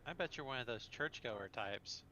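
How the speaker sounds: teasing, bored vampire voice; sultry vampire. Acted. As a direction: purr it out, mocking the prude.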